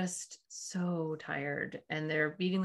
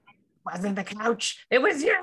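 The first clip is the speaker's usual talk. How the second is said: mock blowup; 4 semitones higher, 7 dB louder, slower than usual. Acting out blowing it at child.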